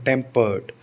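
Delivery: टेम्पर्ड with stress on TEM, falling away; stress on TEMPERED. Shown as a demonstration. Teacher isolating the stressed word, first syllable stressed. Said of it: "तो टेम्पर्ड पर stress आएगा".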